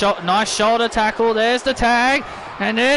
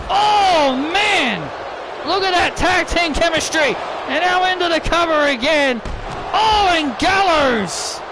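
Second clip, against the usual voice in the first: excited play-by-play; 3 semitones higher than usual. Acted. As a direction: react to each big move as it lands. Commentator reacting to big tag-team moves.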